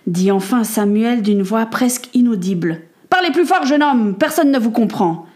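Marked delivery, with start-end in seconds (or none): 3.1-5.2 sharp demand, starting high; impatient order. Acted. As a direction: cut in and demand he speak up.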